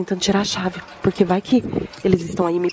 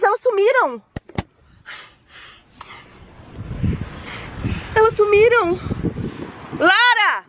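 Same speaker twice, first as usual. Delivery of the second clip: frantic screaming; 13 semitones higher than usual. Real, not acted. A mother screaming for her vanished daughters, frantic.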